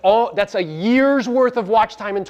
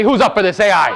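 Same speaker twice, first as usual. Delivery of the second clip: rally the room, louder; louder call to the crowd; 3 semitones higher, 4 dB louder than usual. Shown as a demonstration. Speaker asks the audience again, louder. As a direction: pump them up and demand the aye. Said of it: "I'm sorry, this is like a million dollars worth of game".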